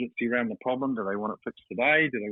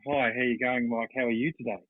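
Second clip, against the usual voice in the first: pushy salesman greeting. Shown as a demonstration. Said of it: "That's a lot softer than".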